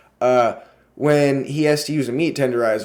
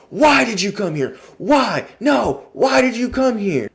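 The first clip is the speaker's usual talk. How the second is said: freaking out, escalating; 9 semitones higher than usual. Retold or imitated. Mister Hart demanding why they came, climbing into a frantic high pitch. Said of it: "He starts freaking out".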